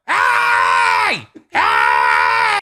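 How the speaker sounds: loud shouted hey; retold shouting. Imitating a homeless man shouting from the alley. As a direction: yell it across an alley. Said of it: "I hear this dude just like".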